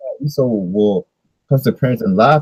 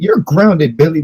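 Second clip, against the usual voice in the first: mock parent scolding; 5 semitones higher than usual. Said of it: "they be like".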